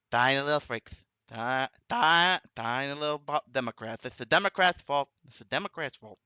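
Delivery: lightly mocked president's voice; Trump. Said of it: "somehow the voice comes naturally".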